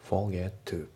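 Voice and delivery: "Forget to" with no T closing Forget; dropped T. Shown as a demonstration. Teacher showing learners the silent T in Forget, dropped T. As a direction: glide from "Forge-" straight into "to". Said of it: "forgetのTも抜けますね".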